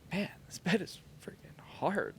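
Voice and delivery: breathy whispered complaint to himself; hushed whisper about the hard bed; whispered thought. Retold or imitated. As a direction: whisper it like a private grumble. Retelling his thoughts on the bed.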